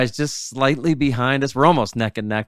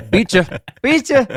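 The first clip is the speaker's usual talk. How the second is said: high, loud sing-out gloating; hammed-up victory jeer, pitched way up; mock taunt; 12 semitones higher, 5 dB louder than usual. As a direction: crow it like a playful winner. Mimicking winners taunting the conquered angler.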